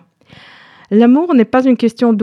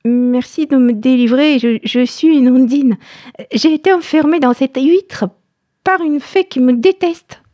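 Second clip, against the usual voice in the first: little fairy voice; 3 semitones higher than usual. Acted. Tiny ondine speaks to fisherman.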